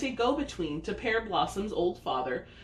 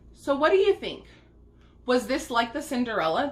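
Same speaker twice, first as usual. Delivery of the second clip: high, loud eager question; excited; 5 semitones higher, 4 dB louder, faster than usual. Real, not acted. Excited question to young viewers.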